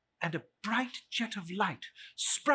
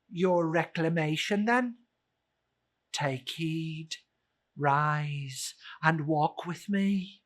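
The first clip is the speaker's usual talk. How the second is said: spirit answering gravely; ghost voice; 4 dB louder, slower than usual. Acted. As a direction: speak as the ghost.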